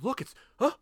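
very high mock surprise; just noticed it. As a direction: imitate a badly feigned discovery. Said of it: "Like, he just noticed it".

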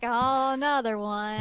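slow, unimpressed sigh of a line; mock-bored, slowed down; nonplussed. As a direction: say it like you've seen it all before. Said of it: "She's, like, nonplussed about this".

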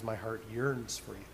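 low, soft, heartfelt declaration; tender. Acted. God telling his wayward child of his yearning, tenderly. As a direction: say it gently, as a quiet avowal of love. God's tender words, quoted.

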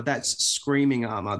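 slow, leaning on "screaming"; "screaming" stretched for emphasis; stress on screaming. Real, not acted. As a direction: draw out "screaming" to correct the title. Correcting the title, word contrasted.

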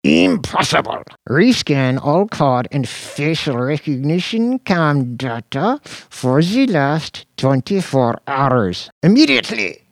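high, loud squealing demand; high-pitched squeal. A narrator's reading. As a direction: shriek the order in a panic. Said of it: "he squealed".

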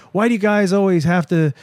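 high, mock-exasperated daughter; imitated complaining daughter. Jane to parents in the car, high mock complaint. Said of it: "Jane's like".

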